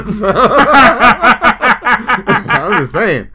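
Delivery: said through a big laugh. Real, not acted. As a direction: still cracking up while saying it. Laughing after joking about division.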